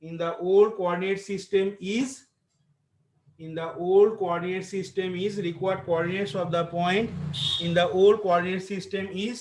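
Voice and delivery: dictating. Acted. Dictating answer to class.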